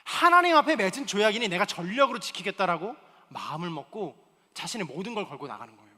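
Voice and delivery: normal talking voice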